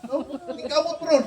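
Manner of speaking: mas taas nga tingog, kaswal nga higala; gamay nga pagsundog sa barkada nga nagtawag; nagsundog kang Ornelo. Retold or imitated. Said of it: "Ingaw sa Ornelo". (hinay nga pagsundog ni Ornelo nga nakigsulti sa barkada)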